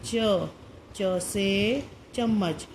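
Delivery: slow, stretched च से चम्मच; patient slow hint; slow hint to a child. Shown as a demonstration. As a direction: draw the answer out slowly as a hint. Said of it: "थोड़ा सा आप hint देंगे".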